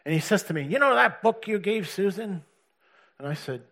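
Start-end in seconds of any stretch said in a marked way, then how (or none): 0.6-2.4 mild angry quote. Retold or imitated. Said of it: "he's angry as".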